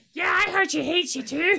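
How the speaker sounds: very high, husky cartoon voice. Imagining what another character would say, in a Donald Duck voice. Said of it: "your Donald Duck voice is descended to, it just sounds like a husky Scottish grandmother".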